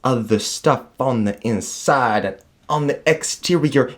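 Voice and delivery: grand commencement speech delivery; graduation speech. Pretend. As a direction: address the graduates with pomp. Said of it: "You sound like you're giving a graduation speech".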